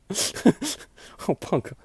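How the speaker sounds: a hint of a whiny plea; mock pleading Alison. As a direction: tease her nervous plea.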